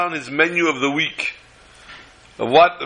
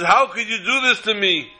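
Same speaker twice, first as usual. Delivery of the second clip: a touch of crying, higher; tearful reproach; 5 semitones higher than usual. Retold or imitated. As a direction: plead with the Rav through tears. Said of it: "And he starts to cry".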